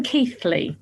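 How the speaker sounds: Keighley with a th, "Keeth-lee"; pronounced Keith-lee. Shown as a demonstration. Podcast host tells listeners the town's name, pronounced Keeth-lee. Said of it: "we're saying Keighley".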